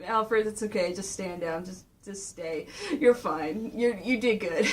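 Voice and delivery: low, quiet reassurance; Batman. Retold or imitated. Batman telling his butler to stand down, low and hushed. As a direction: talk the butler down softly. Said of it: "He's going like".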